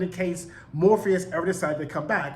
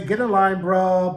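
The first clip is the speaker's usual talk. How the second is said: mildly louder, attempted British accent; 5 dB louder than usual. Imitating Joanna dismissing him, very British accent. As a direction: lightly put on a British accent. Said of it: "very British".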